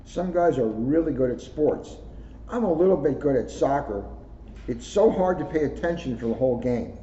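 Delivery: gentle storybook read-aloud; reading to children. Acted. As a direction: read it like story time for kids. Reads a kids' book aloud.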